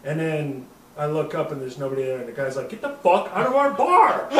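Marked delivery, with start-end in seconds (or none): 2.7-4.3 much higher, louder yell, breaking into laughs; laughing mock yell. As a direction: bartender throwing drunks out. Bartender kicking them out.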